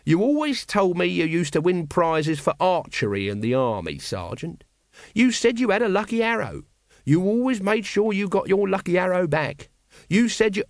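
high, loud wheedling voice; a needling little soldier; Nobby voice. A narrator's reading. Nobby character voice.

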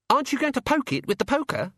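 put-on very high-pitched little boy; eager child asking for violence, high voice; high, piping boy's question; Gawain. Boy Gawain eggs Susan on.

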